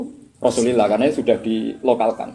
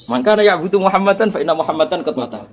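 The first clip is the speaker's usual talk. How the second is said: higher-pitched Arabic quotation; mock speech delivery; 6 semitones higher than usual. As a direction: imitate an orator with raised pitch, at normal pace. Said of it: "Malah nak pidato ning ngene jarene". (meniru pidato, nada meninggi)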